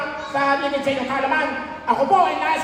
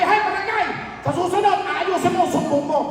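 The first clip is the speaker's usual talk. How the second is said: high scolding shout; angry scolding; 4 semitones higher than usual. Retold or imitated. Captain shouting at the embarrassed tanod, scolding. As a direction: scold the tanod for a careless report. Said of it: "Galit na galit si Barangay!".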